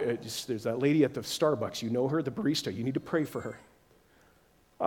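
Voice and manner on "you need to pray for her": low, very slow commanding voice; drawn out and low like a voice from above; deep slow inner voice. Retold or imitated. Preacher imitating God's voice at Starbucks, low and slow.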